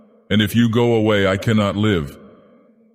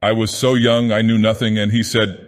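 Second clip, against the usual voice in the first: higher, strained voice breaking into pleading; strained, anguished confession; 3 semitones higher than usual. Acted. Sylvia confesses her past to Jack, strained and pleading. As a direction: plead through rising anguish. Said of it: "a voice changed and strained".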